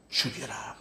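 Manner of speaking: low, whispered imitation of plotters; hushed quote. Preacher quoting religious leaders against Jesus, hushed imitation. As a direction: quote it under your breath, almost voiceless.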